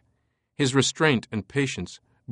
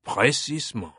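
smug. Acted. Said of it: "a smug smile crossed Fache's lips".

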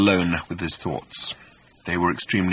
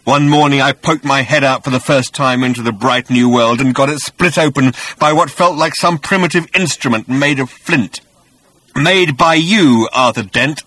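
bitter vengeful creature, growing louder; rumbling creature; 8 semitones higher, 7 dB louder than usual. A narrator's reading. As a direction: accuse him, building to high fury. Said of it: "rumbled the voice".

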